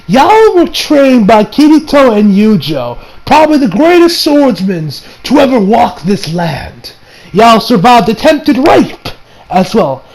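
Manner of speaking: slow, emphatic mock scolding; indignant rebuke. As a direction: lay out each point in disbelief. Acted indignant rebuke of characters.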